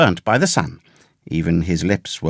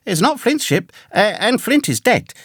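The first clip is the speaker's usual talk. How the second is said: put-on high-pitched, urgent boyish answer; reply at once in a much higher voice; earnest young hero; 7 semitones higher than usual. A narrator's reading. Young Jim answering the castaway's question truthfully, high and earnest. Boy narrator answers in read story.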